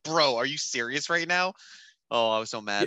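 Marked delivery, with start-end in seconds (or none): 0.0-1.5 slow, incredulous mock outrage; mildly angry retelling, drawn out; retold pissed off. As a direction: replay being fed up with someone. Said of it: "I was so pissed".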